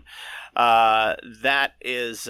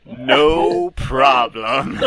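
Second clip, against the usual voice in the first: very slow cartoony French accent; exaggerated, stretched-out French accent; worst French accent; 4 dB louder, much slower than usual. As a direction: ham up a terrible French accent, drawn out. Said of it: "I need you to do a French accent".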